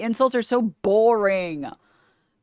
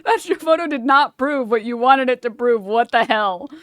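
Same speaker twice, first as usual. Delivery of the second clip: retold outburst; 3 semitones higher, 4 dB louder than usual. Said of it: "And I'm like".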